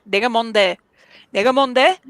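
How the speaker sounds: mock tough "내가 뭔데?", rising on the repeat; with attitude. Shown as a demonstration. 가볍게 건방진 말투. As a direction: toss it back with attitude. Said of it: "you gotta say it like that".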